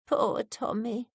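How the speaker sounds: moaning. Acted. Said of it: "she moaned".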